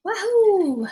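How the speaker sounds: high, excited cheer; wahoo yell. Real, not acted. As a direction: whoop it out for the crowd. Cheering a viewer's donation.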